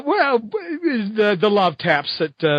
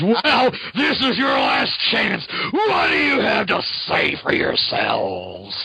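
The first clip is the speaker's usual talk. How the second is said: slow menacing hero; 4 semitones higher, slower than usual. Retold or imitated. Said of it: "Spider-Man says".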